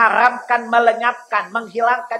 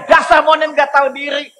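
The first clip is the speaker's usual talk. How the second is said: louder, higher furious jeer; angrier insult; 4 semitones higher, 5 dB louder than usual. Acted. Angry man yelling at the monkey, hammed-up angry shout. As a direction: hurl it out in mock rage. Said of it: "Makin marah dia".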